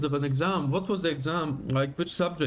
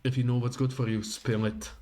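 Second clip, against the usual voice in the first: cool investigator; 2 semitones lower than usual. Acted. Heroine voiced lower.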